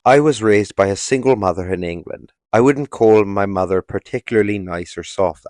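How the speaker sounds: mock British accent, lightly laid on; Andrew Tate. Reading Andrew Tate's story about his mother, mock British accent. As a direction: read it in a put-on British accent. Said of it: "I don't know why I'm doing this accent".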